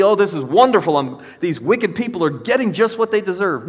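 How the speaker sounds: a touch of gloating delight; mock glee. Preacher mimicking a gloating attitude Jesus rejected, mock glee. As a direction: tease it out like a smug onlooker. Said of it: "Jesus didn't have an attitude of glee".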